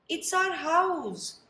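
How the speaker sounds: high, slow squeaky mother mouse. Acted. Mother mouse telling George her house burnt, squeaky. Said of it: "squeaked the mother mouse".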